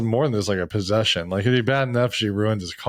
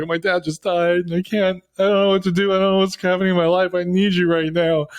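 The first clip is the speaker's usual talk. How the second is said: mock crying; 5 semitones higher than usual. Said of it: "actually crying".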